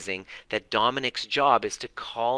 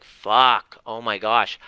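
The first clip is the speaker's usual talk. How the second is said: sudden realization; 6 dB louder, slower than usual. Retold or imitated. Realizing his trauma.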